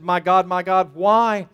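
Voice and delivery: crying out to God. Acted. Jesus on the cross questions his Father, crying out. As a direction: call out, swelling on the last word.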